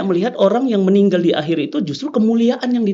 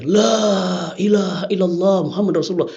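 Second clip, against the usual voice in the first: retold cry out. Bound prisoner cries the shahada before the firing squad, restrained retold call. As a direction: call it out long, without really shouting. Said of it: "teriak dia".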